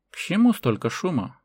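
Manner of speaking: high, firmer composed question; calm repeated question. A narrator's reading. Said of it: "повторил старик".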